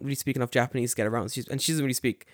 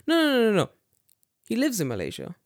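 lightly raised woman's voice, insisting; high woman voice; 8 semitones higher, faster than usual. Retold or imitated. Japanese woman insisting to guest, high voice. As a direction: squeak it up as her.

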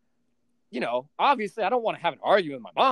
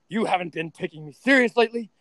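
louder mock nagging blah blah; mock nagging mom; 5 semitones higher, 7 dB louder than usual. Son mocking his mom's complaint, louder blah blah. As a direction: parody her complaint. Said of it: "She's like".

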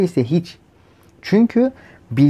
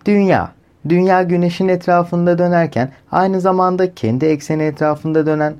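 female voice reading; 4 semitones higher than usual. Pretend. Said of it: "Hatta kadın sesi okusun".

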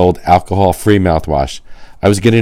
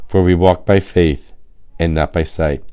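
scripture reading. Acted. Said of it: "Second Corinthians five seven says".

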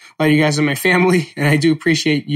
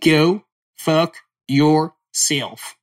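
very slow, drawn-out accent take of Go fuck yourself; put-on accent; much slower than usual. Shown as a demonstration. Showing listeners his accent, slow and drawn out. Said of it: "that's my accent".

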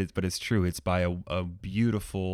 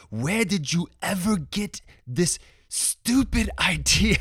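high, hammed-up Scottish preacher voice, much higher and louder; a self-consciously bad Scottish brogue, drawn out slow; playful bad Scottish impression of the pastor; terrible Scottish accent; 11 semitones higher, 6 dB louder than usual. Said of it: "this is gonna be a terrible accent".

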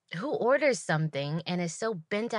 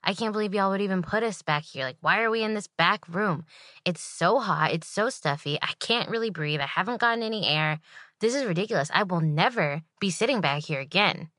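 complaining customer; 4 dB louder than usual. Retold or imitated. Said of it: "she's like".

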